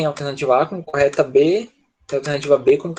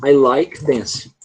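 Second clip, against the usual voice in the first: wrong version; 2 semitones lower, much slower than usual. Shown as a demonstration. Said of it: "você jamais deve escrever assim".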